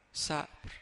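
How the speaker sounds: a breathy hush, as if barely spoken; hushed whisper. Retold or imitated. Imam's quiet repeated word.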